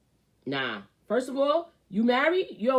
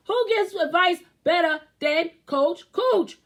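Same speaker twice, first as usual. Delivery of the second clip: high, louder hype question; hype call; 10 semitones higher, 6 dB louder than usual. Acted. Hyping himself up to viewers, high and loud.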